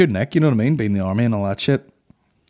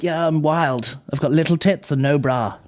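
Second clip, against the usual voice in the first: put-on English girl; 5 semitones higher than usual. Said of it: "such English girls".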